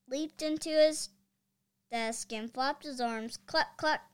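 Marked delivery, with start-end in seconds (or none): 3.4-4.0 higher, louder clucking; chicken clucks. A narrator's reading. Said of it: "he cried".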